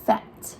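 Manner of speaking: FAT opening on a long, hissed F; F sound demo. Shown as a demonstration. Teacher reminds children to bite the lip, F drawn out in FAT. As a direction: stretch the F of "Fat", teeth on lip. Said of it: "bite your lip so that we can see your teeth".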